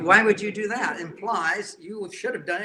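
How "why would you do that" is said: high, loud jabbing question; mock accusing wife. Imitating a wife needling her husband, loud and high. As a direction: punch him with the question.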